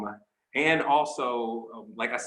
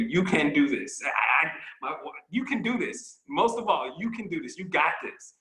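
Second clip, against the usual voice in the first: higher-pitched pep talk; rallying reassurance in a raised pitch; encouraging; 6 semitones higher than usual. Real, not acted. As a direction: cheer them on, pitch lifted. Coach cheering on the group.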